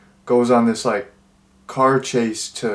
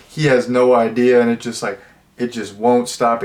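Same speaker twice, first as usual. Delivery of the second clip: ordinary delivery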